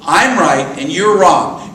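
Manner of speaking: smug self-righteous. Shown as a demonstration. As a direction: lean into the smugness, slowly. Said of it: "what's self-righteousness?".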